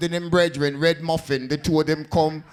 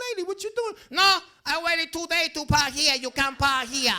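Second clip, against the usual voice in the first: argument; 11 semitones higher than usual. Retold or imitated. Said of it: "I'm like".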